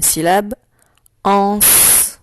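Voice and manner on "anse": ANSE held, with a long final s; dictation. Shown as a demonstration. Teacher dictating the second syllable to pupils, dictation voice. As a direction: dictate ANSE as one drawn-out, isolated syllable. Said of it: "Je vais te dicter les syllabes".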